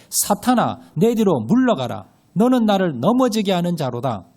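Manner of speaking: loud unison scripture reading; read aloud together. Shown as a demonstration. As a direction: read it out loud as one congregation. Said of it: "시작".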